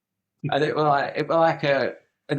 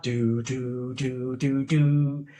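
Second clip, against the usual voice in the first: repeated "doo" sound effect; mock TV countdown noises; imitated show jingle; much slower than usual. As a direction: sound out the reveal jingle in steady notes.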